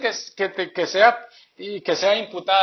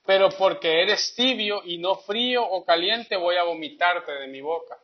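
scripture reading. Acted.

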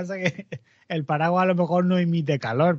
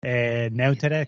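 groping for the word; 6 semitones lower, much slower than usual. Real, not acted. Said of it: "¿cómo es en español?".

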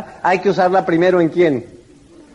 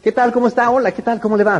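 higher, lightly cheerful hellos; friendly greeting; 4 semitones higher, faster than usual. Shown as a demonstration. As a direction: greet warmly, as if pleased to meet them. (saludo amable y alegre)

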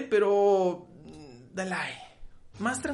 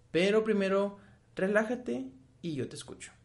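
low, gentle reassuring voice; calming, soothing; 4 semitones lower than usual. Acted. Calming down a yelling partner. (tono tranquilizador y suave con la pareja)

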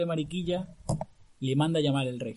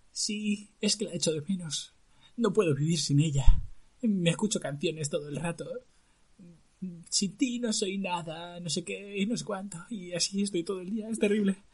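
lovesick prince; 4 semitones higher than usual.

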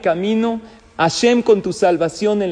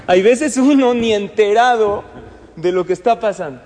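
laughing; 2 semitones higher, 4 dB louder than usual. Real, not acted. Laughs after violin joke.

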